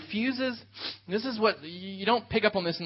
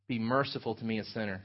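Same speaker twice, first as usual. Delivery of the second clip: hushed, lower humble plea; 5 semitones lower, 5 dB quieter than usual. Retold or imitated. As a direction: pray it softly, head bowed like a sinner. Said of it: "beat his breast".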